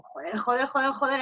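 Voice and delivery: muttered joder, joder in panic; cursing under breath. Retold or imitated. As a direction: curse at yourself over and over. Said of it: "es como".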